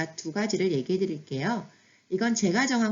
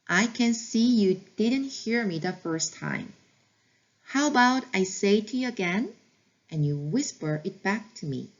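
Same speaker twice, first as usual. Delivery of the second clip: slow practice repeat; much slower than usual. Shown as a demonstration. Teacher repeating the phrase for learners, very slow. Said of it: "다시 한번 해볼게요".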